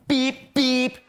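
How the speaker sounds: high, loud beeps; sharp vocal horn honks; imitated car horn. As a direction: honk like an angry driver.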